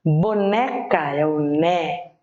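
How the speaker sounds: Boneca very slowly, NE held long; stress on NE. Shown as a demonstration. Teacher picking out the tonic syllable, holding NE in Boneca. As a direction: stretch the NE in Boneca, then isolate it. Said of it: "que é a sílaba mais forte".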